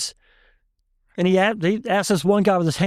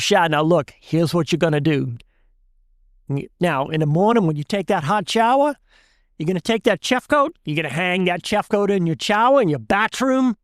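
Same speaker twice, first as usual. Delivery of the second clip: put-on thick Cajun accent. Cajun shrimper explaining to the class what to do, thick Cajun accent. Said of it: "Bernard says in that thick Cajun accent".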